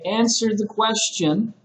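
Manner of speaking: mildly acted demanding teacher; teacher's demand. Shown as a demonstration. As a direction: press a student for an answer. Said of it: "sometimes the teacher might say".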